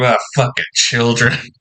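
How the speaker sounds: muttered under breath. Answering in character, saying it only to his group: muttered under the breath. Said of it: "it's just a mumble".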